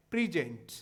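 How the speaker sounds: प्रेजेंट said "pri-JENT", short i first; verb pronunciation. Shown as a demonstration. Teacher showing students the verb's sound, प्रेजेंट as "pri-JENT". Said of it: "इसका है".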